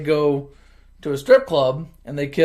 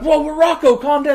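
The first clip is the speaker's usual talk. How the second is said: mock alarm; 13 semitones higher, 6 dB louder than usual. Brothers calming Rocco, acted.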